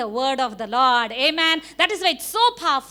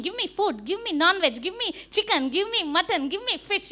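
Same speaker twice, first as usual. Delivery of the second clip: craving body; 6 semitones higher than usual. Retold or imitated. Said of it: "Your body is craving".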